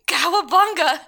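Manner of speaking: loud, high battle cry; excited shout. Pretend. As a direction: jump with a gleeful yell. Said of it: "And then I say".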